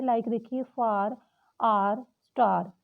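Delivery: "far", "star" said slowly with a long ar; sounding out ar words. Shown as a demonstration. Teacher drills the ar sound slowly for learners. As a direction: stretch the ar vowel in each word. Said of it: "आ जहाँ पे आती है".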